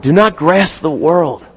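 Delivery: slow restatement. Shown as a demonstration. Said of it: "slow restatement".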